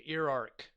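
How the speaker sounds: "Iraq" stretched as ih-RAHK, drawing out the final K; careful pronunciation. Shown as a demonstration. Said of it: "Political Canuck says Iraq, not Iraq".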